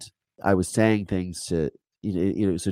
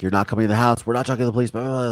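mild mock yell, pitch climbing; imitated hysterical screaming; 5 semitones higher, much faster than usual. Grandmother turning the detective away, in mildly mimicked hysteria. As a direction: imitate a frantic refusal without really screaming. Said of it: "she's screaming hysterically at him".

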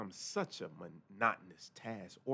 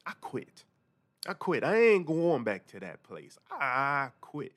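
angry outburst; 6 semitones higher, 7 dB louder than usual. Retold or imitated. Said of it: "I would say".

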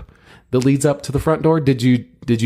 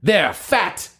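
slow grand heroic hail; booming Van Helsing address; hammy hero call; 3 semitones higher, slower than usual. Acted. Hero hails vampire, hammy.

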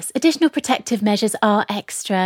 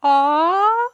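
saying ahh; 7 semitones higher, 3 dB louder than usual. Pretend. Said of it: "And say".

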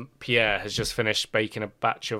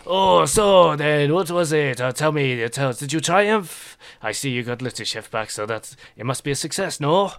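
Pierre; 4 semitones higher, 5 dB louder than usual. Acted. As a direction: eagerly ask for the tale. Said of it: "and he's like".

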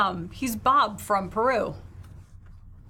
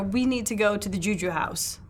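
understated, calm insistence. Acted. Player in character urging Alexandra onward, very calmly. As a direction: say it evenly, ignoring the others. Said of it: "like, very calmly".

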